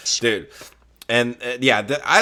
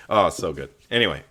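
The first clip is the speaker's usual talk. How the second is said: usual speaking voice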